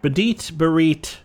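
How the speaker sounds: spoken robot beeps; droid beeps. Pretend. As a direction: chirp like a little droid. Player voices droid beeps.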